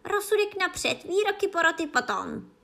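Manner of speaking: loud, high-pitched command; exclaiming queen. A narrator's reading. Queen demanding sentence before verdict, loud high cry. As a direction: call it out as a ruling. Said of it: "zvolala královna".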